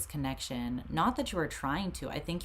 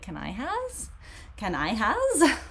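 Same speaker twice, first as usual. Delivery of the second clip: begging pet voice; 6 semitones higher, 4 dB louder, slower than usual. Retold or imitated. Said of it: "Luna's like".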